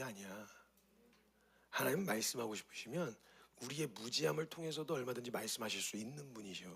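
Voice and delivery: mild hint of a kind older missionary; gentle reassurance. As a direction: reassure a worried young pastor kindly. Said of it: "뭐라고 하셨냐면".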